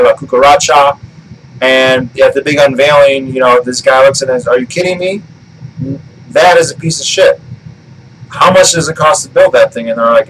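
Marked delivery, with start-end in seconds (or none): 4.5-9.9 high, incredulous outburst at a terrible car; outraged disbelief. Retold or imitated. Executive scoffing at Homer's car, outraged and high. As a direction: let the pitch jump up in disgust.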